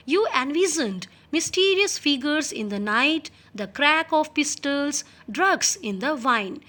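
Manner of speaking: reading the English text slowly and clearly. Shown as a demonstration. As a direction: read each word out slowly for the class. Teacher reads English text aloud. (धीमी आवाज़ में पाठ पढ़ना)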